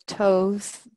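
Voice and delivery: Toth opening on a hard t, long o; hard-t pronunciation. Shown as a demonstration. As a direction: say Toth as "tohth". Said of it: "many different ways of pronouncing his name".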